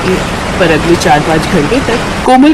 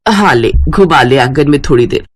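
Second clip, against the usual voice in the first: put-on low, easy older-woman voice; lightly voiced mother-in-law; 5 semitones lower than usual. Mother-in-law hands the grandson over, lightly voiced.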